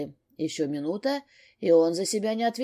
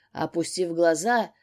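usual speaking voice

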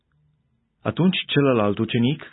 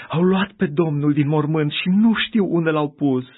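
higher and louder, breathless alarm; alarmed report; 6 semitones higher, 4 dB louder than usual. A narrator's reading. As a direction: burst in with frightened news. Maria aleargă alarmată la ucenici. (vestire alarmată, mai sus și mai tare)

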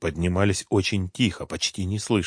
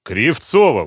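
louder startled exclamation of her name; exclaiming; 4 semitones higher, 6 dB louder, slower than usual. A narrator's reading. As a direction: call out her name in surprise. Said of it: "воскликнул Николай Николаевич".

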